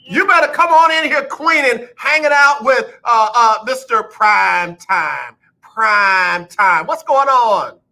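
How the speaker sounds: loud, high-pitched hype-man greeting; excited host calling a guest in; hyped welcome. Real, not acted. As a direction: welcome the guest with a big drawn-out shout.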